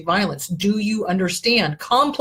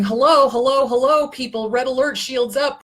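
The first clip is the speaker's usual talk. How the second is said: mock alarm call, higher and louder; hammed-up red alert shout; sounding the alarm; 5 semitones higher, 3 dB louder than usual. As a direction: call out a warning like a ship's klaxon. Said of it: "sounding the alarm going".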